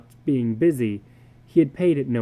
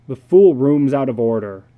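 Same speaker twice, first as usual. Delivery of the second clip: annoyed outburst; 10 dB louder than usual. A narrator's reading. Frustrated husband to wife.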